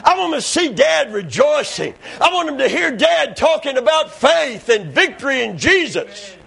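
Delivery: emphatic pulpit cadence, punching key words; fervent preaching. Acted. Father wanting his kids to see him rejoicing, fervent preaching. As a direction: testify with rising fervour.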